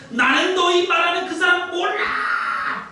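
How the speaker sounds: high, slow shouted oath; cursing denial. Retold or imitated. Peter shouting his denial at the accusers, cursing. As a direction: swear it out, cursing and denying. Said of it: "베드로가 저주하고 맹세해서 말했습니다".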